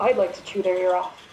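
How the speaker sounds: muttered, grumbling, under the breath. A tabletop player voicing their character walking through a carnival, muttering under her breath. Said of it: "Siggy will mutter under her breath".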